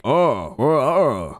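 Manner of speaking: imitated dopey game-henchman noises; wordless mock henchman "oh, uh"; henchman grunts. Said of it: "run into a henchman and he's like".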